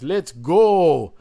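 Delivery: imitating a Canadian twang, loud; a hint of a Canadian "Let's go"; Canadian-sounding let's go. Podcast host imitates McAfee's entrance, Canadian twang. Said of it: "Pat McAfee's song where he goes".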